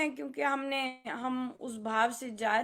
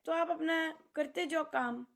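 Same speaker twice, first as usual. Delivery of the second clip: ordinary delivery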